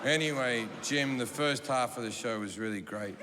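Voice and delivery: low, awkwardly polite voice; understated, downcast sincerity; subdued grieving husband. Retold or imitated. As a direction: finish a painful explanation with restraint. Grieving husband awkwardly finishes his explanation.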